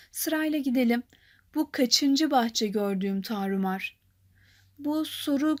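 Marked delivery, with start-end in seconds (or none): 1.5-4.0 slow, lower recital with kaçıncı leaned on; stress on kaçıncı. Shown as a demonstration. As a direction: read it slowly, weight on kaçıncı. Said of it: "Kaçıncı burada vurgulu olan kelimedir".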